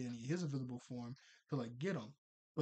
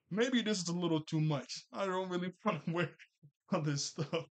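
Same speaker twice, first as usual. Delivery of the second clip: laughing protest; 4 semitones higher, 3 dB louder than usual. Retold or imitated. Tucker unsure about makeup.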